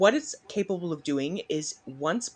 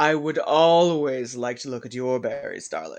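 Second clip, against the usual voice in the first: loud, raised, rakish delivery; 4 semitones lower, 5 dB louder than usual. Voicing Jared answering a player's offer of berries: rakish Jared voice. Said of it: "with a very distinctive rakish grin, and he goes".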